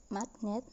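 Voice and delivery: magnet with the stress on mag; first-syllable stress. Shown as a demonstration. Teacher showing the stem to learners, magnet stressed on mag. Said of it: "the stress in the first syllable".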